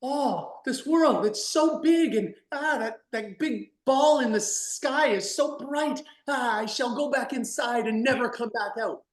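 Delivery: put-on high, awed little kid; wide-eyed child, scared of the big world; small child voice. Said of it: "they go".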